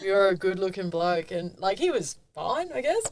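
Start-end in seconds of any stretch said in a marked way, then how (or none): 0.0-1.3 said through laughter; laughing. Real, not acted. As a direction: laugh while repeating the line.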